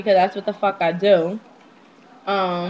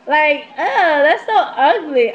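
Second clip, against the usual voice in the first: slow, high, loud ugh of disgust; 5 semitones higher, 4 dB louder, slower than usual. Real, not acted. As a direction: drag out the disgust. Disgust at being other woman.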